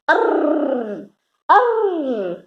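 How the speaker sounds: arr rolled out, rising; arr sound. Shown as a demonstration. Teacher showing the er sound with a mixer action. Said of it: "like a mixer and say".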